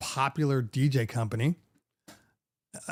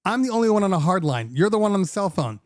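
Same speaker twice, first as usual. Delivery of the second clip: firm retort; 4 semitones higher than usual. Retold or imitated. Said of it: "I'm like".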